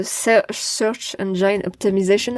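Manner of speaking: English words said with a heavy French accent; jokingly French-accented English. Real, not acted. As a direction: say "Search Engine Optimization" the French way, self-mocking. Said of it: "avec mon super accent".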